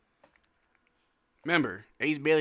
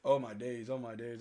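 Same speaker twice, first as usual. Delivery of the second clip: ordinary talk, nothing marked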